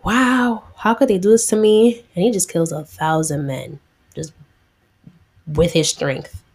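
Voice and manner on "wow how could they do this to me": mildly indignant, raised pitch; acted outrage, a touch higher; retold anger. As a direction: imitate a wronged man protesting, louder by the end. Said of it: "he gets even more tight".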